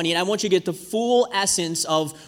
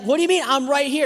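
higher-pitched mock indignation; retold indignant retort; 6 semitones higher, faster than usual. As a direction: act out dad's puzzled, indignant comeback. Dad snaps back in retold quarrel.

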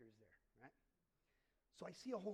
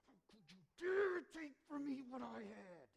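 higher, louder mock outrage at God; angry accusation; 7 semitones higher, 12 dB louder than usual. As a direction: hurl it at God as a wronged man. Acted bitter accusation at God.

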